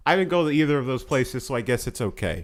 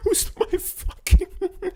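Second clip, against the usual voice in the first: much higher and louder, through laughter; mock fury while cracking up; laughing outraged yell; 5 dB louder than usual. Real, not acted.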